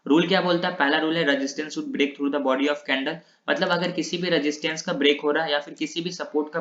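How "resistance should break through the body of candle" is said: reading the rule out slowly, word by word. Shown as a demonstration. Teacher reads the breakout rule to students, slow dictation. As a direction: spell the rule out slowly so students can copy it.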